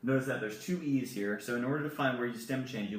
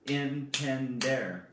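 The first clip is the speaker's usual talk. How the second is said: slow model word; much slower than usual. Shown as a demonstration. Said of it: "teacher models syllables".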